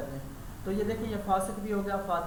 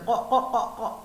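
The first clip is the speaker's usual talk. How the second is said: crow caw; much slower than usual. Retold or imitated. Teacher imitating the mountain crow's caw for the class. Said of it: "وہاں پہ یوں کرتے ہیں".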